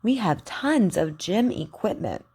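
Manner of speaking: careful teacher model sentences, KW sound stressed; over enunciating. Shown as a demonstration. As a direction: say each word clearly for learners to repeat. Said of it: "Repeat after me".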